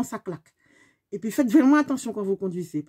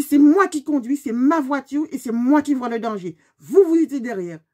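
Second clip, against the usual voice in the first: angry retort; 2 semitones higher, 5 dB louder than usual. Retold or imitated. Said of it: "J'ai dit".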